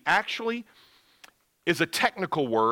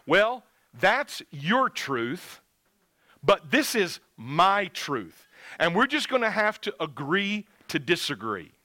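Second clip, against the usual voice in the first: mocking relativist. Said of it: "you'll hear people talk this way".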